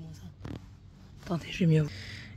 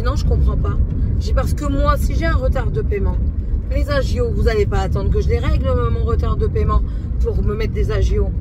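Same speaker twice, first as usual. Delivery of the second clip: louder, heated complaint; angry retelling; 2 semitones higher, 5 dB louder than usual. Retold or imitated. Retelling her angry call to the bank, heated and loud. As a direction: vent it like the call still stings. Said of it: "Je me suis énervée".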